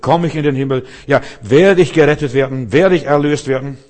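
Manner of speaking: urgent, insistent string of questions; mock anxious questioning. Acting out an anxious seeker's questions.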